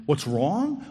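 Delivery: a sharper, rising echo of her question; exasperated outburst. Retold or imitated. Unloading on a neighbour after a bad day, exasperated outburst. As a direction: throw her question back at her, fed up. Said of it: "unleashing on her and saying".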